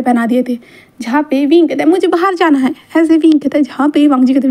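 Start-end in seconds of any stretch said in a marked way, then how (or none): 1.9-2.7 higher-pitched, mildly insistent begging; insistent plea. Acted. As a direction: lightly plead to be let out. Child-like Wing insists on going out.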